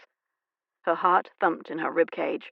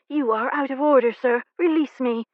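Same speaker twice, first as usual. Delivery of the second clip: through her teeth; 6 semitones higher, 5 dB louder than usual. Acted. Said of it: "she said through her teeth".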